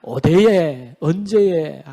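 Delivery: mock denial in dialect; lightly played Korean dialect comeback; regional Korean dialect. Preacher voices the people denying God's charge, in dialect. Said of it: "사투리 하나 가르치셨는데".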